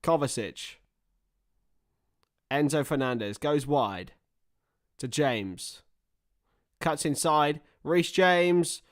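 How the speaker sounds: play-by-play, building on the player's name; match commentator's measured build-up; live football commentary. Pretend. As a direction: call the move as it unfolds.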